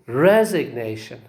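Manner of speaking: "resignation" with RE secondary and NA primary; stress on NA. Shown as a demonstration. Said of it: "let us see, say".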